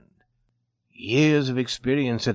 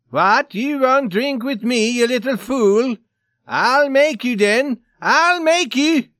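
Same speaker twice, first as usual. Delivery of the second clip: high, loud shouting, building higher; enraged threat; 11 semitones higher, 7 dB louder, slower than usual. A narrator's reading. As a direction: threaten him furiously, dragging out the words. Enraged Swede threatens gambler.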